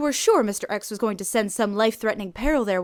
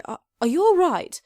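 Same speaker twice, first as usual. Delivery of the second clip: slight concern; 8 semitones higher, 6 dB louder than usual. A narrator's reading. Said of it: "with slight concern".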